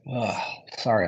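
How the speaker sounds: talking through a yawn; sleepy yawning voice. Real, not acted. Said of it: "I'm yawning so much".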